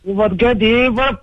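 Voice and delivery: high, slow mock Russian accent. Caller obliging a woman's request, mock Russian accent. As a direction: stretch it out in a put-on Russian accent. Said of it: "tu peux me faire l'accent russe".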